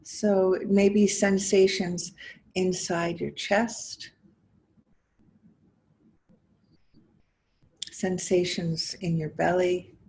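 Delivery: measured guiding voice with long pauses between phrases; guided meditation. Acted. Teacher inviting listeners to notice body and breath, guided meditation. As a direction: invite them gently inward, phrase by phrase, leaving space. Leads a guided mindfulness exercise.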